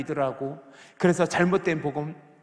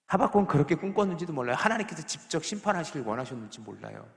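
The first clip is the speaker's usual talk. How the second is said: ordinary talk, nothing marked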